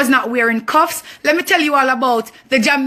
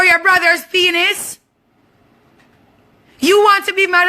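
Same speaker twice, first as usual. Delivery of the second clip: furious shout; 4 semitones higher than usual. Real, not acted. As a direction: yell it at her, outraged. Furious confrontation with the auntie.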